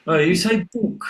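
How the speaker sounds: mock posh "book" with a short vowel; high, loud teasing "Oh, you say book."; mocking southern student. Classmates tease a northern student: mock high "book". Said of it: "And they said".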